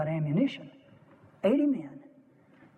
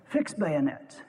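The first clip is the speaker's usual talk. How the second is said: quiet firm order; 5 semitones lower, slower than usual. Retold or imitated. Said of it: "And Chamberlain said".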